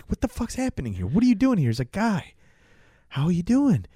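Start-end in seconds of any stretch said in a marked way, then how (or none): 0.1-1.7 incredulous. Retold or imitated. Guy confronting Bruno. 1.9-3.8 unhinged Bruno. Retold or imitated. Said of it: "the way he talks, the sound in his voice".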